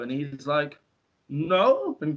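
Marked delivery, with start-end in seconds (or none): 1.3-2.0 higher, halting mock-Italian; caveman-like Italian impression; bad Italian accent. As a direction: put on a poor Italian accent. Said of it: "he's Italian".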